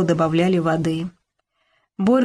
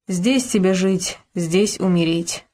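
slow, heavy convict warning; hard-bitten old con, slowly; grim old convict; slower than usual. Acted. Old convict warns Borka.

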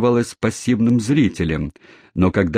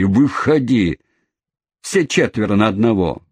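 cabman challenging; 2 semitones higher than usual. Acted. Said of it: "завертел перед собой кулаками".

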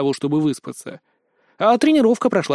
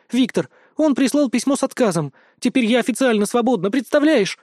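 raised, higher, breathless happiness; tearful joy; 7 semitones higher than usual. Acted. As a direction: spill out the good news, near tears. Mashunya overjoyed, in tears. (сквозь слёзы от счастья, высоко и радостно)

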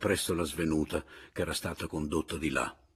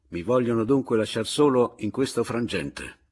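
loud, raised, exasperated protest; exasperated outburst; 4 semitones higher, 7 dB louder than usual. A narrator's reading. Narrator left without seconds, bursting out exasperated. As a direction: burst out at being abandoned. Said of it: "proruppi ancora una volta esasperato".

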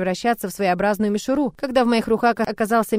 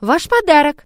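loud, higher servile reply; fawning, lifted voice; obsequious; 6 semitones higher, 7 dB louder, slower than usual. A narrator's reading. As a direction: answer eagerly to please. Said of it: "пободострастно ответила Эльви".

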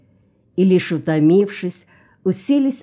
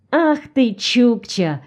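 high-pitched delighted exclamation; excited chatter; 6 semitones higher, slower than usual. A narrator's reading. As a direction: burst out eagerly, starting high. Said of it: "затарахтел Толик". (возбуждённая трескотня)

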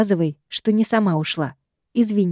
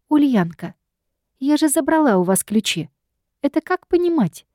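higher, rising demand for an answer; snapping at sister; 6 semitones higher than usual. A narrator's reading. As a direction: bark the question across the flat. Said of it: "рявкнула я на всю квартиру".

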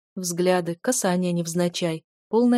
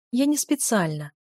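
purring; 3 semitones higher than usual. Acted. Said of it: "промурлыкала я".

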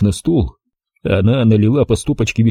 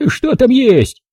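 scornful snort; 13 semitones higher, slower than usual. Acted. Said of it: "презрительно фыркнула она".

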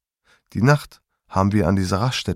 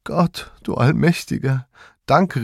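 a touch higher, relieved cry to God; relieved thanks; 5 semitones higher than usual. A narrator's reading. Mother thanks God as father wakes, relieved. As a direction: breathe out your relief in thanks. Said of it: "riefst du erleichtert".

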